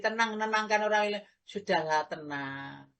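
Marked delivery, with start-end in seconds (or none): 1.5-2.9 low, soft mock soothing; soothing hush. Imitating a soother who says calm down softly. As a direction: imitate someone hushing you to calm down. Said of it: "Paling ngomongnya gini".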